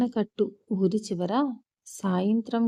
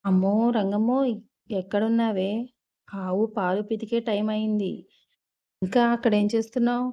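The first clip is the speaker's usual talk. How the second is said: calling out. Acted. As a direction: shout across the yard, impatient. Landlady calling from the house.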